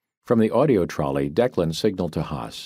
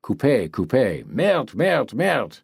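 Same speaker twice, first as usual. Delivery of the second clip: slow, then a much higher furious French cursing; furious meltdown; 6 semitones higher, slower than usual. A narrator's reading. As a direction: boil over into a fit of cursing. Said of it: "the meltdown over his bullhorn".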